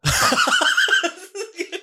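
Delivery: sustained high cackle of laughter; can't stop laughing; long high laugh. Real, not acted. Cracks up at the condom jab.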